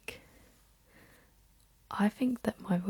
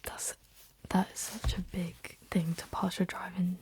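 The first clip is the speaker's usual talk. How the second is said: ASMR whisper. Real, not acted. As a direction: whisper it close and unhurried, like ASMR. Whispered ASMR ramble throughout.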